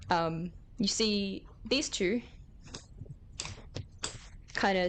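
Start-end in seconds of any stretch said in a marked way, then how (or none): none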